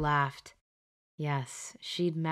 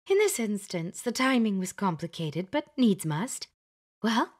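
higher, emphatic fussy witch; bossy Glenda; 4 semitones higher than usual. Acted. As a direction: lay down the rules like a schoolmistress. Glenda presses for answer.

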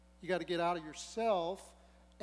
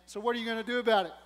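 mock indignant; 3 semitones higher, 6 dB louder, much faster than usual. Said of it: "she's saying".

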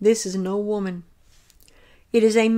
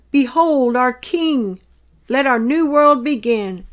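slow, loud proclamation; crying out loud; 2 semitones higher, 4 dB louder than usual. Retold or imitated. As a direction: proclaim it slowly to a crowd. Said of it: "cry out loud".

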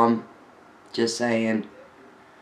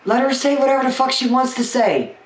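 laughing defiance; 11 semitones higher than usual. Real, not acted. Ranting about critics.

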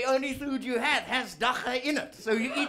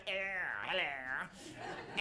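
Queen impression; 6 semitones lower, 10 dB quieter, much faster than usual. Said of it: "The Queen's like".

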